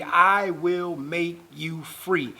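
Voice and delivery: slow, deliberate weight on "make"; word by word, "make" firmly stressed. Real, not acted. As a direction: draw the line out, leaning on "make". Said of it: "important that we stress that word make".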